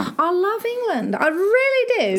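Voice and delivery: slow, posh-sounding British accent. Shown as a demonstration. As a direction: put on a British accent, drawn out. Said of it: "sag's halt einfach mal".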